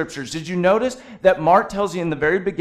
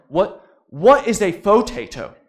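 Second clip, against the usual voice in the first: mock-baffled, higher and louder; louder, puzzled double-take; retold incredulity; 4 semitones higher, 6 dB louder than usual. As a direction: question it in disbelief, imitating yourself. Retold baffled reply to wife.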